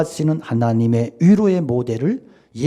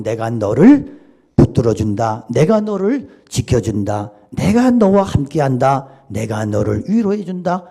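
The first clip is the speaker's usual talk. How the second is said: voice of God; 2 semitones lower, 4 dB louder than usual. Retold or imitated. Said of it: "이렇게 위로해 주셨다는 거예요".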